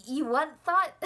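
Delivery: loud, flustered retort; mock outburst. Answering people pushing potatoes on her, loud mock retort. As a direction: blurt it out loudly in mock disbelief. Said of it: "I'm gonna be like".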